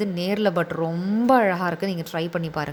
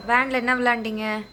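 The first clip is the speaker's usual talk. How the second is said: patient comforting; 3 semitones higher than usual. Real, not acted. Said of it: "பொறுமையா சொல்லியிருக்கேன்".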